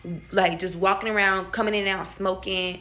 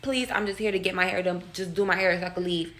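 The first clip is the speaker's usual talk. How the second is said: calm pleading. Retold or imitated. Customer trying to explain to the stylist, calm pleading. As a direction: reason with her calmly. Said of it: "speak to her calmly".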